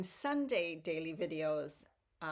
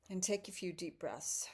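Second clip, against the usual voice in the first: guided meditation. Acted. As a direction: ease them into stillness. Leads a breathing meditation.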